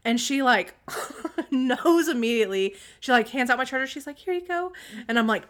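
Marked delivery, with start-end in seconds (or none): 0.8-1.5 imitated sharp gasp; sudden voiceless intake, as if caught out; mock gasp. Child knows immediately she's in trouble, mock gasp. 4.2-4.7 imitating a meek kid, very high; small high voice, handing it over; meek child. Child hands mom the charger, meek and high.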